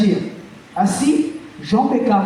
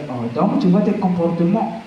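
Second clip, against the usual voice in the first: a lightly lowered, heavy barber voice; deep big voice; 4 semitones lower than usual. Retold or imitated. Barber calling the kid over in a lowered big voice. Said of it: "le gars, il a une grosse voix".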